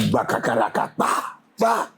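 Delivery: rattled-off mouth sound effect; imitated rapid-fire noise. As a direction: sputter out percussive nonsense syllables. Imitates noise of his excited moment.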